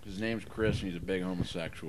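distant, off-mic voice; speaking away from the microphone; turned away from mic. Real, not acted. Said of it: "Dave, talk into the mic".

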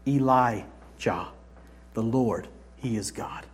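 low, slow, fading chant; hushed retold cry. People of Israel acclaiming after the fire, hushed chant. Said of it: "They cried out".

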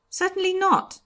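very high, loud refusal; emphatic denial. A narrator's reading. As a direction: deny it with indignant force. Brother denies knowing the prisoner.

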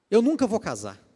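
loud, high dramatic lament; mock a girl wailing she'll never marry; despairing girl. Preacher imitating a lonely girl giving up on marriage, loud high lament. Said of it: "tem umas meninas que pensam assim".

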